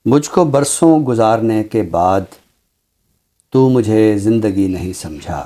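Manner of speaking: measured mushaira-style poem reading; ghazal recitation. Acted. (शायराना अंदाज़ में ग़ज़ल पढ़ना)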